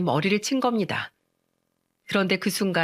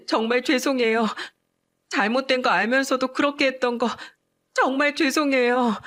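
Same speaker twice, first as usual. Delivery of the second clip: higher, trembling apology on the verge of tears; tearful apology; 4 semitones higher than usual. Acted. Sister-in-law kneeling to apologize, tearful and pleading. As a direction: plead with remorse, voice lifting. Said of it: "하염없이 울더니".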